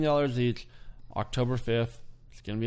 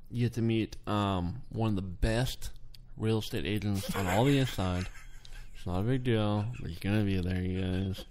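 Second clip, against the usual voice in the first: giggly prank whisper; 6 semitones lower, 5 dB quieter than usual. Pretend. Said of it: "why are you whispering into the mic?".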